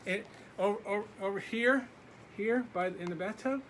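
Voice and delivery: high, hesitant questions; a timid child guessing; nervous boy asking. Acted. Laszlo timidly asking the dark where to go.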